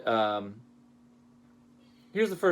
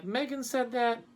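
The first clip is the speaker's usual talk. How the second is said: mock disbelief; 11 semitones higher than usual. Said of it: "I'm like".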